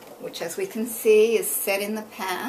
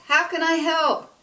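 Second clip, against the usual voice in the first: high and loud introduction; loud booming voice; 8 semitones higher, 6 dB louder than usual. A narrator's reading. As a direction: boom your name at the captain. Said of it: "in her Emily voice".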